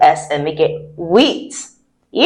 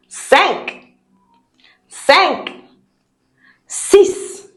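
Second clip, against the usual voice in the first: energetic count; 6 semitones higher, much slower than usual. Shown as a demonstration.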